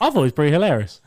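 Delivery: fast, laughing through the words. Retold or imitated. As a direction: chuckle it out quickly. Retort while laughing.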